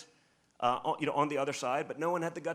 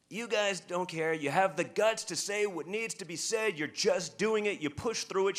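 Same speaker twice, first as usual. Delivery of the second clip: higher, slow, gushing mock praise; imitating the older lady; 4 semitones higher, slower than usual. Lady praising him in restaurant, slow higher imitation. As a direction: lean into her praise, drawn out and lifted. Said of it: "And she's screaming it".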